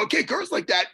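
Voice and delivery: furious reply to the cleaner; angry retort. Retold or imitated. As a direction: snap back through the stall door. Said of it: "I go".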